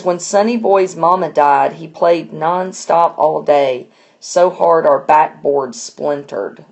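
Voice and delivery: slow, subdued reading of a sad line; understated somber poem reading; a touch somber. Acted. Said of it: "the tone really changes just for this one sentence".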